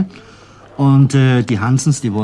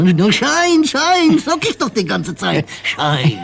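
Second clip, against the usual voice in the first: much higher, loud insistent "Schein"; immigrant's reply; 14 semitones higher, 4 dB louder, slower than usual. Retold or imitated. Polish immigrant answering the shoeshine boy, high and insistent. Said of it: "Das sagt der Jud".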